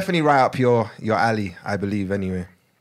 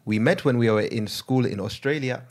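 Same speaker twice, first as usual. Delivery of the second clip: put-on Ugandan accent. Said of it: "I'm gonna read it in Ugandan accent".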